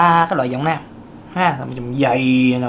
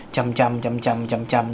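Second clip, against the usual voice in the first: trầm trầm said lower, softer and slow; low voice demo; 5 semitones lower, 4 dB quieter than usual. Shown as a demonstration. Teacher shows students how a deep female voice sounds. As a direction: drop the voice down to show a deep alto. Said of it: "là giọng nữ trầm".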